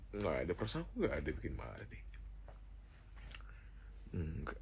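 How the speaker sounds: very soft, low muttering; small, subdued protest; muttered denial. Acted. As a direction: mumble it defensively to yourself. Muttered denial of upsetting partner.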